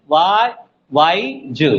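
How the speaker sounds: वाई repeated alone, then a detached ज; teacher sounding out वाई and ज; separated syllables. Shown as a demonstration. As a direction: cut ज away from वाई with a small gap. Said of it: "तीनों तीन syllable है".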